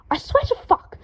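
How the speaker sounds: high angry shout. A narrator's reading. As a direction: shout at Harry in frustration. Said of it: "Draco shouted".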